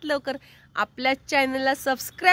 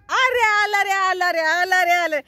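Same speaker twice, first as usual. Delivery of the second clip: acted-out rousing welcome, raised pitch; excited hailing; 4 semitones higher, slower than usual. Hailing the pet's grand arrival, mock excitement. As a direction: chant it like hyping a champion's arrival.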